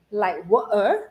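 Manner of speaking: playful Cockney with the middle consonant dropped; Cockney accent attempt. Streamer shows off an accent for viewers, Cockney attempt. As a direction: try a mock Cockney glottal stop. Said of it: "I can have a Cockney accent".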